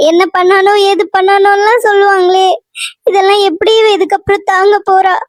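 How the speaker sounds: crying through the words; tearful despair. Acted. Mother dreading street gossip about her daughter, tearful despair. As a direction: fret tearfully, close to sobbing.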